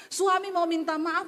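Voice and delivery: ordinary delivery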